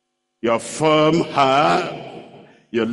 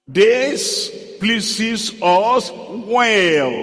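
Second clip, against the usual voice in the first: mock smug members; 4 semitones higher, much slower than usual. Members mock-defy the pastor.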